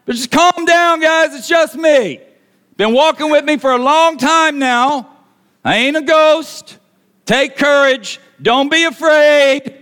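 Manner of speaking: high, sustained shouting; hollered, high-pitched reassurance; yelling. Acted. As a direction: yell reassurance over a roaring storm.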